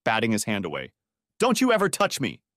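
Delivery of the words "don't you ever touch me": indignant, understated scream; mild narrated scream. A narrator's reading. Wife warning deputy off, mildly screamed. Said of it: "she screamed".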